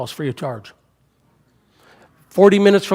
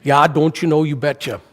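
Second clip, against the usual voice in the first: hammed-up Minnesotan with Norwegian lilt; Minnesota accent. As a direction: play up a folksy Minnesota accent. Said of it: "I, I never talked like that".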